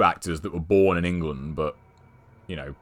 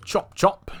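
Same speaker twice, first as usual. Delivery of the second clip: high, sing-out hurry-up; high-pitched urging; 12 semitones higher than usual. Pretend. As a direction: call her along in a raised pitch. Hurrying game companion along, repeated higher.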